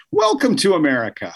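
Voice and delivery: sarcastic welcome, like a game show host; welcome wagon greeter. Pretend. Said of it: "be the welcome wagon".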